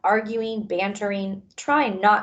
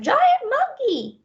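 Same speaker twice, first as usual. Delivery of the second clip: high, slow shriek of panic; panicked scream; 4 dB louder, slower than usual. Acted. Frightened animal shrieking at the giant monkey, high and slow. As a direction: drag out the terror.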